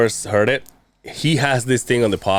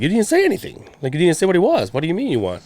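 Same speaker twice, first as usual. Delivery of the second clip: retold protest; 7 semitones higher, faster than usual. Retelling the host's disputing reply.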